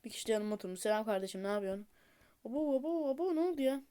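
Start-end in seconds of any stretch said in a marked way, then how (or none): 2.5-3.8 1 surprised. Real, not acted. Surprised by stranger sitting.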